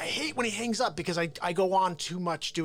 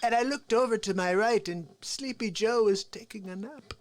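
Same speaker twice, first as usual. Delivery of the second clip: Donald Trump. Acted. Comic as Trump mocking Sleepy Joe on stage, indignant impression. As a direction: stretch words in mock indignation. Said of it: "I get a little, like, crazy with Trump".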